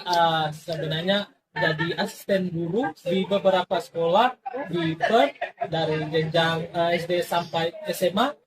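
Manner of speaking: chuckling through the words; laughing. Real, not acted. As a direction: say it with a light laugh. Laughs while describing his job. (sambil tertawa kecil)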